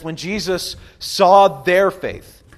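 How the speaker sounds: very slow, each word weighed; slow reverent reading of the verse; slow scripture reading. Shown as a demonstration. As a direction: read the verse slowly and solemnly. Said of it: "It says".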